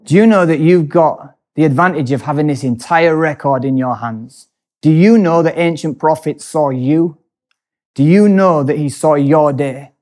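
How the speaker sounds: lightly voiced earnest apostle addressing a congregation; mild earnest preacher impression; acting Gary E. Stevenson. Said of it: "this is me acting him now".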